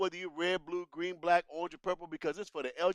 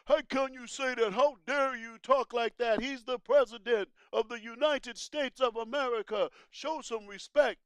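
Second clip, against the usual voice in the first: indignant crowd; 5 semitones higher than usual. Retold or imitated. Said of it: "They were like".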